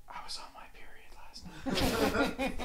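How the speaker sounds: put-on high giggly girl voice; laughing through the quote; laughing mock girl voice. Girl's confession, laughing.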